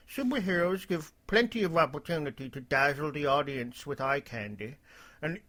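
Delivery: lightly voiced droopy cartoon dog. Reading El Cid's post aloud, light droopy dog voice. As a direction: read it with a hint of a droopy dog. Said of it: "I'll do a droopy dog voice".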